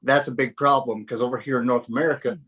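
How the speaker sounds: lightly put-on Southern accent. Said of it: "I really liked your Southern accent there you just, uh, put on".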